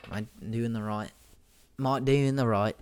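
tentative put-on Australian accent; attempted Australian accent. Shown as a demonstration. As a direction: try out an Australian accent, unsure of it.

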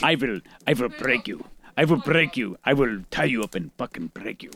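low, quiet menacing brute; barbarian. Retold or imitated. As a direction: growl it like a hulking barbarian. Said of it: "And he looks like".

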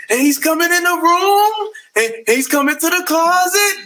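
high, hammed-up dramatic sung narration; mock-intense storytelling in a high voice; R. Kelly imitation. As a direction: play it like an overwrought soap-opera singer. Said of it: "he's like".

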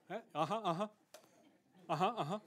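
mock counselor half-listening on a call; pretend patient listening. Pastor hearing out a caller's troubles, pretend patient listening.

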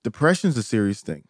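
a gentle hint of teacher talking to little ones; preschool teacher voice. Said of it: "my preschool teacher voice".

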